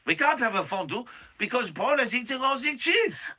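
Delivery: mock Swiss accent. Host voicing a Swiss citizen about Paul's return, mock Swiss accent. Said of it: "It's a Swiss accent".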